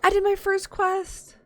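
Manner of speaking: loud, high, thrilled cry of victory; excited shout. Real, not acted. Streamer cheering her first finished quest, loud and high. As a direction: shout it out like you just won.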